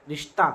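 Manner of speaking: रिश्ता ending in an open aa; h as alif. Shown as a demonstration. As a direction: let the written he of रिश्ता sound as aa. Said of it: "इसकी आवाज़ अलिफ की तरह".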